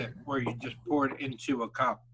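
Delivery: talking while chewing food; mouth full. Real, not acted. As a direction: speak through a mouthful of food. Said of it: "Talk with your mouth full more".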